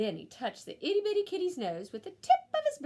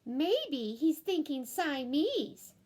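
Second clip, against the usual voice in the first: slow musing; 4 semitones higher, much slower than usual. Acted. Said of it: "added Jillyboo".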